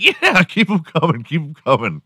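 amused, egging the insults on; laughing along. Retold or imitated. Answering the imagined insults, laughing and amused. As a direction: chuckle through it, enjoying the insults. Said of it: "I'd be like".

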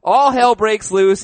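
slow, loud and high, playing up the chaos; milk the disaster line; dramatic.

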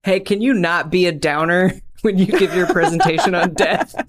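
breaking up mid-sentence; laughing mock request. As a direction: voice a boss's request while cracking up. Acted boss request, breaking into laughter.

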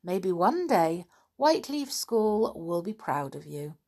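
put-on reading a chapter aloud to children; gentle storytelling voice for kids; story narration. A narrator's reading. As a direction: tell it like a bedtime storybook. Reads a school story aloud.

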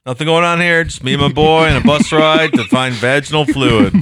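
innocent casual. Pretend. Voicing Joseph on bus.

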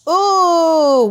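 high loud delighted ooh; excited ooh. Real, not acted. Guest reacting to a crazy question, loud delighted ooh. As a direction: squeal at the fun question.

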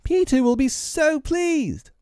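very high fairy voice, drawn out; slow, high-pitched fairy excitement; Tinker Bell urging. A narrator's reading. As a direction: coax him in a tiny high voice. Tinker Bell gleefully urging Tootles.

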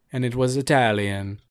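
a quick, hammed-up Italian accent; mock Italian accent. Podcast host jokes about the Italian volcano in a bad Italian accent. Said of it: "Terrible accent".

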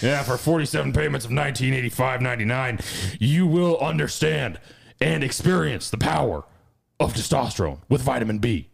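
fast, pushy supplement pitch in a host voice; hard-sell the vitamins like a radio huckster; Alex Jones. Acted. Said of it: "Alex Jones".

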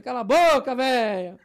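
put-on loud shout at the old woman; retold shout. Him yelling back at the old woman, loud rude shout. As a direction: yell back rudely. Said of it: "Aí eu falei".

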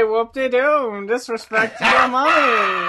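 slow, hammy Groucho Marx impression. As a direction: ham it up like Groucho. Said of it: "the fucking Groucho Marx voice thing".

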